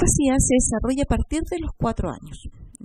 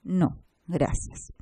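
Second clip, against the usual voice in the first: "No, gracias" said slowly and softer, falling; calm falling answer; slow, soft reply; 3 semitones lower, 5 dB quieter, much slower than usual. Shown as a demonstration. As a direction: let "No, gracias" drop slow and quiet. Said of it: "una sola palabra".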